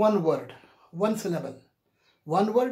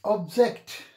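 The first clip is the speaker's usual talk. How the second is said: "Object" with the stress on "-ject"; stress on second syllable; 3 dB louder than usual. Shown as a demonstration. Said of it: "the stress is on the second syllable".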